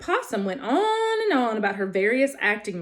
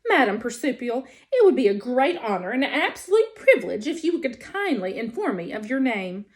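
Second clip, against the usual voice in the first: friendliest voice. Acted. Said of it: "in the friendliest voice she could muster".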